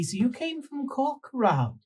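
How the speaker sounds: imitating the wife. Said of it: "she said".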